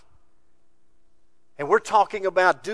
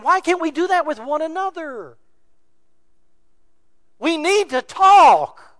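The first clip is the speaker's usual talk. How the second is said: preached emphasis; 12 semitones higher, 10 dB louder than usual. Real, not acted. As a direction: drive it home to the congregation.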